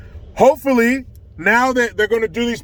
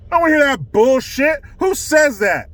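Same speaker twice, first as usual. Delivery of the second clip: angry shout; 4 semitones higher than usual. Real, not acted. Angry outburst at the claim.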